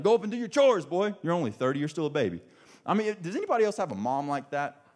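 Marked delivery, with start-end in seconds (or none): 0.0-2.4 lightly hammed-up mother ordering the boy upstairs; scolding mom. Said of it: "It's like".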